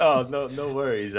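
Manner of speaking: out of breath after running; breathless, still catching his breath. Real, not acted. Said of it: "I'm a little out of breath".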